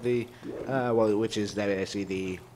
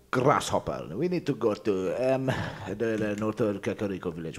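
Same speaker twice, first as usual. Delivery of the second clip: mock wise master. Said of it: "Why am I talking like this?".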